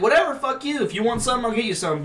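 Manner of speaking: hammed-up huffy offer; mock exasperation. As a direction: imitate a fed-up officer giving in. Acting out exasperated officer.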